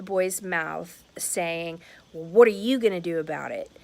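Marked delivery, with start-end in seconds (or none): 2.1-3.7 loud defiant challenge; defiant taunt. Retold or imitated. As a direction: throw it back defiantly. Boy's taunt retold.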